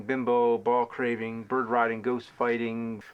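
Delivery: scripted rant, held back and slowing at the end; measured insult list. Acted. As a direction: space out the insult list evenly.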